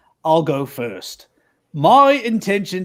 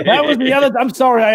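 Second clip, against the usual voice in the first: laughing; 10 semitones higher, 6 dB louder, faster than usual. Real, not acted. Laughing at own mistake.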